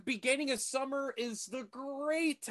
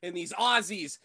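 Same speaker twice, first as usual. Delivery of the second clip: hammed-up outraged tirade, punching key words; mock nationalist rant; 3 dB louder than usual. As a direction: rant like a pretend fed-up patriot. Mock rant against foreign actors.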